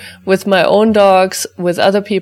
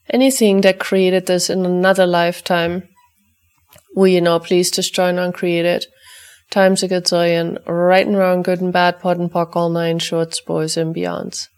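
brisk, rote recitation of a set formula, easing off toward the end; ritual clearing statement. Acted. Facilitator reciting the clearing for the listeners' dogs, rote chant. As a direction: rattle off the clearing chant as routine.

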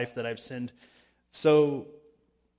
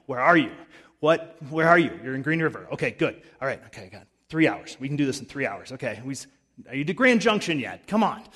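louder, eager calls down the phone; impatient parent on phone; 4 dB louder, faster than usual. Retold or imitated. Mother checking on driving son, loud and impatient. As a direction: pester him over the phone, half joking.

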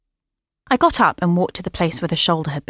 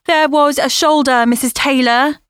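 shouting; 7 semitones higher, 4 dB louder than usual. Acted. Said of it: "Lena shouted through the computer".

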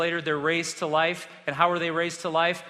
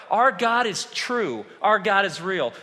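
crying out; 4 dB louder, slower than usual. Retold or imitated. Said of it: "the heavens began to cry out".

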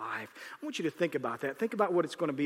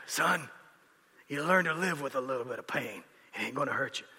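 Italian grandfather; 3 semitones lower than usual. Retold or imitated. Grandson hearing grandfather's advice, mild low voice. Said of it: "it was more like this".

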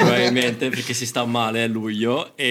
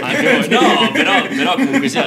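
laughing; 11 semitones higher, 8 dB louder than usual. Real, not acted. Laughing mid-sentence.

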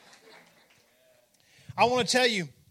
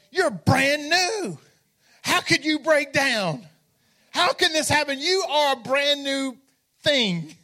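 higher, slow, indignant cry at the broken bike; mock disbelief; 4 semitones higher, slower than usual. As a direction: stretch it out in mock outrage, slow. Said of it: "our first thought was".

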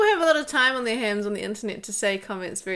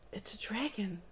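hushed whisper of wonder; a hushed, amazed whisper; 16 dB quieter than usual. Acted. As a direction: breathe it out in awe. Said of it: "he whispered".

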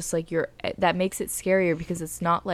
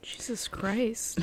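breathy hushed whisper, slow; shocked whisper; 4 semitones higher, 9 dB quieter, much slower than usual. Real, not acted. Hearing of the evil doll, a slow shocked whisper. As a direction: gasp the words under your breath.

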